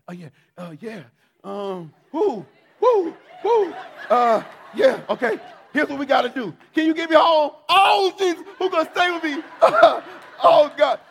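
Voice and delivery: high, loud jittery junkie voice; twitchy slurred sniffing addict. Retold or imitated. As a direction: babble like a spooked junkie. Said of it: "I started talking like a junkie".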